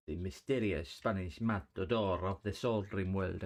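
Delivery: a light put-on Spanish accent; mock Spanish accent. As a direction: ham a hint of Spanish accent, badly. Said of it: "I don't know what accent that was".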